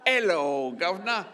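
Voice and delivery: loud, high mock Hello governor; quoted loud greeting. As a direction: belt out the greeting as they do. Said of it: "stop saying".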